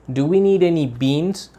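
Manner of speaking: "beans" stressed, tune rising on "need"; rising question. Shown as a demonstration. Teacher repeating the model question for the class, rising. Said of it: "So you say".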